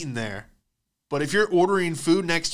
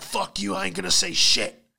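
defiant; 6 semitones higher than usual. Retold or imitated. Defiant prisoner resisting torture.

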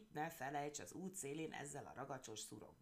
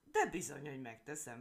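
gloating; 7 dB louder than usual. Acted. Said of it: "felelte kajánul".

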